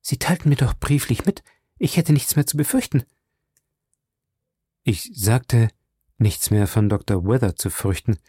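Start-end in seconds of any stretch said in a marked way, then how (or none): 0.0-3.0 a hint of a higher, anxious woman's voice; lightly voiced young woman. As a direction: remind him, uneasy. Violet spricht weiter. (leicht angedeutete junge Frau, besorgt)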